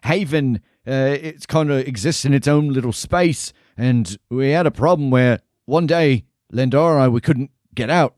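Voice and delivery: lightly voiced jolly barkeep; a hint of a cheerful innkeeper; friendly tavern keeper.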